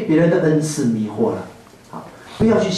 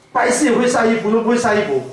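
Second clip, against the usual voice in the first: scolding husband; 5 semitones higher than usual. Retold or imitated. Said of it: "他就骂我说".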